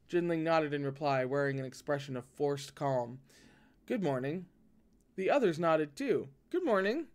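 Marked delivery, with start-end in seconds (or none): 3.9-4.4 flat, stiff greeting; forced calm. Acted. Jinling replies with forced calm. 6.5-7.1 bright high greeting from the juniors; higher voiced greeting.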